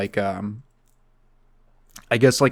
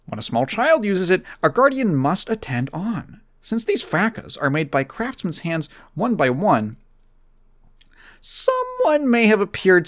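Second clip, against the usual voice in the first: higher, animated mock-reviewer read; Doug Walker voice; 5 semitones higher than usual. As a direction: pitch up and go indignant over each skin flaw. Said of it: "Let me do my Doug Walker reading off this".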